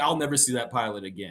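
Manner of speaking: plain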